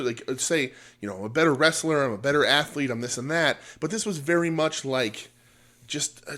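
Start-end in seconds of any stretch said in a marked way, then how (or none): 1.2-3.6 lightly acted wrestler's boast; wrestling promo boast. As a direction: list the boasts with a little extra punch. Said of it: "in a professional wrestling way".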